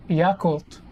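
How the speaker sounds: Yakult drawn out with an open YAH; American pronunciation. Retold or imitated. Explaining a word newly heard last night, American pronunciation. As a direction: stretch Yakult slowly, YAH-kult. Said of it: "how they said it is".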